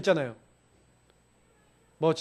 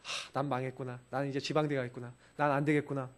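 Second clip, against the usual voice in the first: sighing, much softer and lower; despairing sigh; 10 semitones lower, 13 dB quieter than usual. Retold or imitated. Discouraged student thinking about the exam score, despairing sigh. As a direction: breathe out hopeless thoughts.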